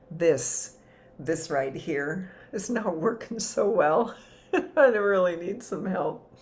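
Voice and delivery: half-laughing, mildly hammed-up appeal; mock plea for help. Worshipper brings a struggle back to the womb, lightly pleading. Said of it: "we come back and we say".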